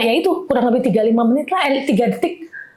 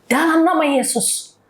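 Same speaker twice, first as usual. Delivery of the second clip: higher-pitched, drawn-out declaration; retold prayer shout; 4 semitones higher, slower than usual. Wife declaring healing over her husband in the ER, mild retold shout. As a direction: re-enact crying out a command in prayer. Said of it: "Saya teriak-teriak di situ".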